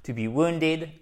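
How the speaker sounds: "wounded" stressed on the first syllable, WOON-ded. Shown as a demonstration. Teacher showing the tonic accent, stress on first syllable of "wounded". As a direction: punch the WOUN of "wounded", light ending. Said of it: "accent tonique ici".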